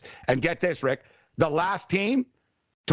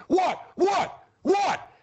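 high mock taunting what, pitched way up; 13 semitones higher, much slower than usual. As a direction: taunt the kid like a cocky receiver. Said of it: "He's like".

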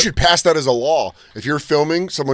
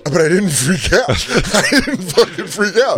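high-pitched protest building to a yell; escalating denial; 7 semitones higher, 4 dB louder than usual. Retold or imitated. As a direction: act out losing it while denying it. Escalating protest of not freaking out.

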